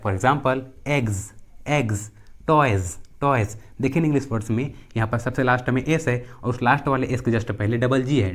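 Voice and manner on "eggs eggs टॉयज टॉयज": eggs and टॉयज ending in a Z sound; final S as Z. Shown as a demonstration. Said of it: "एस का उच्चारण ज होता है". (eggs, टॉयज में S को "ज़" बोलते हुए)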